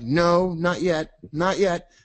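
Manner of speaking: high mock no; price refusing. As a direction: stubbornly hold off, playfully.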